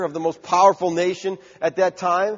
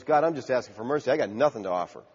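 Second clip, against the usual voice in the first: humble plea; 6 semitones lower, 7 dB quieter, faster than usual. Acted. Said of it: "In other words".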